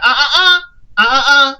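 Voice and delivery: Marcus denying he slept with Lady Eloise. Retold or imitated. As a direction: deny it hard.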